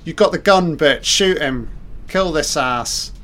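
yelling at the screen. Real, not acted.

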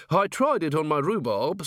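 lightly voiced high old-timer; a hint of the rustic caretaker; old man keeper. Old man making conversation about manure, lightly voiced old-man voice.

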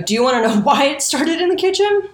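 rising teasing hums that climb each time. Real, not acted. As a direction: goad the audience into guessing. Teasing listeners to guess.

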